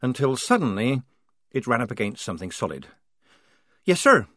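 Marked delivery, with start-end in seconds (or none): 3.8-4.3 curt, loud snap; snapped. Acted. Polly snapping at her lieutenant, curt and loud. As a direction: bite the words off at the officer. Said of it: "she snapped".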